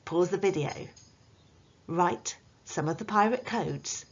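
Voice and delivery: lightly voiced pirate teaching the class; a hint of a jolly pirate captain. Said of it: "let's get the pirate voice back in".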